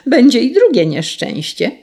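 calling out a threat. A narrator's reading. Sparrow promises the carter another misfortune, calling out. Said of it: "zawołał wróbel".

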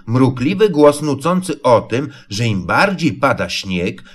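plain reading voice

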